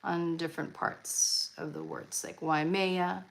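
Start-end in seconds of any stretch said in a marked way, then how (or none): 2.4-3.2 Waimea stressed on MEA; accent on later part. Shown as a demonstration. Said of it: "they do an accent on the words".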